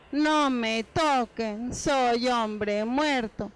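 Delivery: very slow, dragged-out plea of a man who thinks he is dying; mock dying voice. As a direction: drag every word like you have no strength left. Lazy boy claims he is dead. (voz de moribundo fingido, muy lenta)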